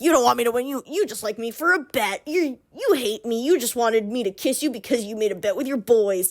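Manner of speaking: mock-wounded, emphatic protest; imitating a lovers' quarrel; acted hurt accusation. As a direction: throw the accusation back, hammed-up.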